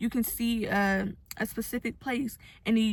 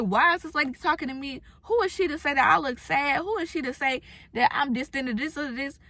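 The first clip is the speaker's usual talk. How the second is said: annoyed rant; 4 semitones higher than usual. Retold or imitated. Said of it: "I would've been so angry and so upset".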